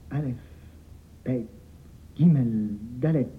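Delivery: the master catches fire reciting the alphabet; growing excitement. Acted. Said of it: "de plus en plus excité".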